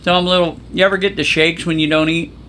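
talking while eating crackers; mouth full. Real, not acted. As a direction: chew and talk through a mouthful. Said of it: "I'm doing a Lou Mangel. I'm eating some cheese and crackers".

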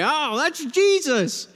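high, slow, delighted; pleased recognition. Pretend. Disciple sees Jesus on the water, slow and high. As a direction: gasp it out like you've spotted a friend.

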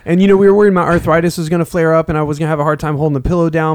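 proud athlete at the mic; press conference voice. Pretend. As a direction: thank the fans after the big win. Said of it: "it's a after fight press conference".

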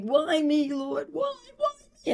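high anguished wail, why me; crying, pleading with the Lord; crying out to God. Retold or imitated. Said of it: "I break down crying".

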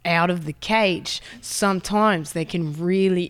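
lightly imitated Australian wildlife presenter; Steve Irwin. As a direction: explain the danger in a put-on Australian accent. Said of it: "He's like".

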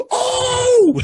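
huge gasping shout, very high; gasp of realization. Retold or imitated. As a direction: gasp and cry out in sudden recognition. Realizing it's Fuzzy.

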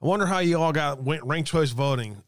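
mock Southern accent; worst Southern accent. Host asks about ranked choice voting in a mock Southern accent. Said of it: "In my worst Southern accent".

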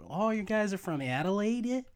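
high-pitched mock tourist question; imitating American tourists. Co-host mimics Americans guessing the hometown, high mock-tourist voice. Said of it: "all the while they're saying".

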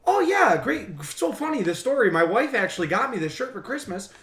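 attempted Maine accent, starting high; muddled New England accent, Maine-ish; imitated Maine accent. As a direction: imitate a chatty guy from Maine, accent slipping. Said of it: "What accent are you doing?".

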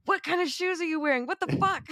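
high, mock-outraged squeal; mock squealing complaint; fussy sound guy. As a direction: ham up a prissy sound man's outrage. Mocking a fussy sound man.

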